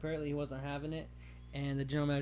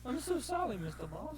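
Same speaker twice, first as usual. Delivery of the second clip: mock apology; 10 semitones higher than usual. Playing Ben apologizing.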